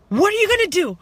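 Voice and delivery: high, loud taunting shout, daring him; furious shout. Retold or imitated. Taunting a drunk passenger to fight, loud angry shout. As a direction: yell a challenge at the big man. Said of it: "I was so angry".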